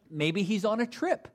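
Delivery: sarcastic guess; mocking. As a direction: offer the excuse with fake helpfulness, lifting at the end. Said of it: "he's making fun of them".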